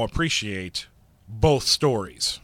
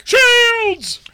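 very high, loud bridge-officer shout; Sulu; 12 dB louder than usual. Acted. Co-host mocked as Sulu plays along, high shouted impression. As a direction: scream the command, hammed up. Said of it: "You sound like Sulu".

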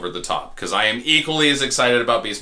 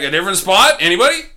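exasperated plea; 9 semitones higher, 7 dB louder, faster than usual. Retold or imitated. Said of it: "you're just like".

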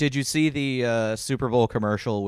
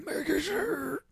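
Patrick Stewart; 7 dB quieter, slower than usual. Retold or imitated. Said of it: "he sounds like he's gargling glass".

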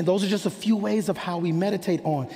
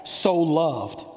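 "so loved" set apart and given weight; stress on "so loved". Shown as a demonstration. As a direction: lean on both words of "so loved". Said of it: "you can emphasize so loved".

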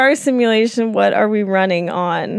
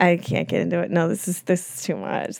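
talking with mouth closed; 3 semitones lower than usual. Real, not acted. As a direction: mumble it through a closed mouth. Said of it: "She's the muffled moaning".

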